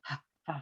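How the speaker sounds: ha said harsh like a villager, the wrong way; "ha" pushed out roughly; a crude ha; rough village ha. Shown as a demonstration. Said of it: "kayak orang pedesan tuh ya".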